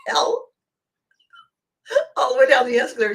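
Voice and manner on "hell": very high, slow, astonished cry; shocked squeak. Retold or imitated. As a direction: squeal in disbelief. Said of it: "there I am in my sublime".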